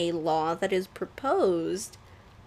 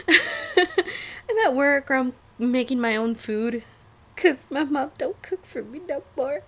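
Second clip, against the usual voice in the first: laughing; 5 semitones higher, 4 dB louder than usual. Real, not acted. Telling viewers her mom won't cook, laughing helplessly. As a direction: laugh while you say it, half crying.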